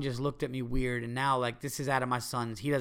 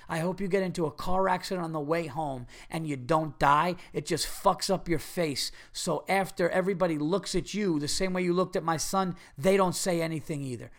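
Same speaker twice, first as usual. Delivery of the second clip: imagined tirade; 3 semitones higher, 4 dB louder than usual. Pretend. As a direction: tear into the rude stranger. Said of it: "I wanted to find this guy and go".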